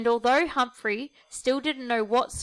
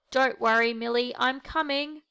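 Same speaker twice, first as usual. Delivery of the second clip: calling out; 2 semitones higher than usual. Acted. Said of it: "Humphrey called".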